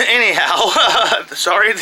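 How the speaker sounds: sheepish, drawn-out chuckled apology; laughing. Real, not acted. Reviewer apologizing for interruption by kid, laughing.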